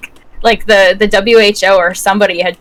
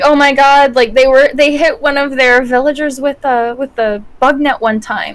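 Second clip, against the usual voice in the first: mildly hammed-up worried parent, pitched up; mock parental panic; 4 semitones higher than usual. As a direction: imitate an overreacting parent, a touch high. Imitating freaking-out parents, continued.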